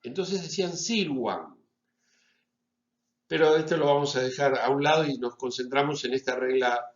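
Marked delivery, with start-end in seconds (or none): 0.8-1.6 "silvam" a la manera romana, "síluam"; v como u. Shown as a demonstration. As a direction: say "silvam" with a w sound for the v. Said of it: "pronunciaban nuestra B corta como una U". ("silvam" con la v pronunciada como u)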